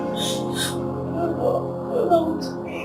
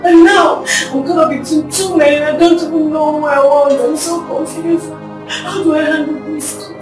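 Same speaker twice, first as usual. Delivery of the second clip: tearful lament. Acted. Brenda laments between two men.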